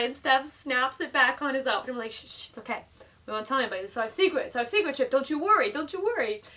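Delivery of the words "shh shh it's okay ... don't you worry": calm him like a frightened pet; cooing to a scared pet. Retold or imitated. Soothing Chip, keeping secret.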